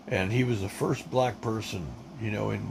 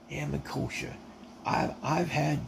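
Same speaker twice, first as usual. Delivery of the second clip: a light Kentucky drawl, slightly higher; imitating Stanley's Kentucky drawl; 4 semitones higher, 3 dB quieter than usual. Veteran mimics Stanley taunting him about his wife, light Kentucky accent. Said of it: "this is the way he talked".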